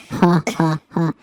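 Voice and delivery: slow, playful tough-guy deep voice; mock deep voice. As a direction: put on a deep voice, slowly laying down the law. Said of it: "this is my deep voice".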